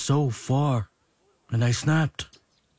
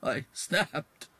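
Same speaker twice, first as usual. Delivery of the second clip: a much softer repeat of I snapped, nearly cracking; voice breaking; 6 semitones higher, 7 dB quieter than usual. Acted. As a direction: let "snapped" crack as it trails off.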